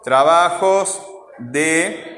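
slow dictation. Shown as a demonstration. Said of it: "teacher dictating folder name".

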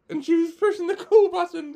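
laughing. Real, not acted. Laughs retelling her panic.

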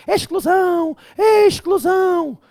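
voz de falsete aguda e lenta de aluno; faça um aluno choroso em falsete; aluno imaginário. Pretend. (aluno aflito pergunta ao professor, em falsete)

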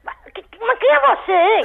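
high, indignant questioning; stumble, then demand an answer angrily; angry demand. Real, not acted. Woman demanding to know who is calling, angry. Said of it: "lagartixa tá braba demais".

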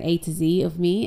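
"Z" said as zee, American style; American "Z" pronounced zee. Shown as a demonstration. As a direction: end "A to Z" with a light "zee". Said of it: "If I was American".

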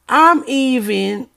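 tripping over words from excitement; excited stammer, words catching; stuttering. Real, not acted. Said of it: "that's how you can tell I'm getting excited because I'm stuttering".

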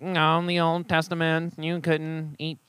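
lightly voiced smug skeptic; snobby skeptic. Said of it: "that's my snobby skeptic impression".

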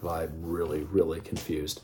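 bewildered murmur. Retold or imitated. Puzzled inner reply.

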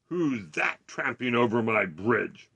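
slow, loud roar; drawn-out booming challenge; troll's roar. A narrator's reading. Troll challenging the big goat, roaring slowly. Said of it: "roared the troll".

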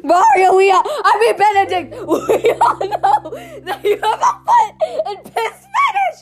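high laughing screech; loud sharp voice. Real, not acted. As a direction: shriek it through laughter. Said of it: "why are you screaming?".

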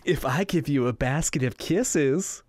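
slow, lightly put-on knitting voice; measured, slightly affected storybook delivery. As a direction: draw it out slowly, as a quote in character. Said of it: "let me use my knitting voice".

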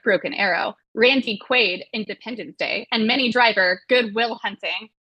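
movie description read aloud, a touch of trailer drama; lightly hammed read of a movie blurb. Host reading the official blurb to the panel, mock trailer voice.

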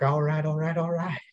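lightly voiced actor as villain; a mild celebrity impression; Matthew McConaughey. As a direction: play the villain with the actor's easy catchphrase. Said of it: "Matthew McConaughey".

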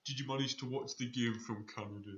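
light mock Canadian accent. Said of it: "Don't say that again in a Canadian accent".

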